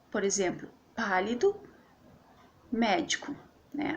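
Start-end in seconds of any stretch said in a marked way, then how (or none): 0.9-1.6 "pálido", weight on pá, then fall away; antepenultimate stress. Shown as a demonstration. Teacher giving students an example word, stressed on pá in "pálido". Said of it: "A sílaba tônica tá no pá". 2.7-3.3 "médico", weight on mé; antepenultimate stress. Shown as a demonstration. Teacher giving students an example word, stressed on mé in "médico". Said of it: "e tá no mé".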